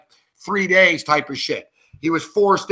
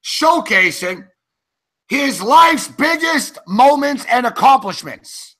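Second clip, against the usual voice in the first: slow, deliberate, higher read-out; mock announcement; 5 semitones higher, slower than usual. Sports host reads out a player's tribute news, mock-grand announcement. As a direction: draw out each phrase like a grand proclamation.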